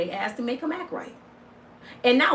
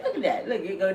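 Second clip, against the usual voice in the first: ordinary talk, nothing marked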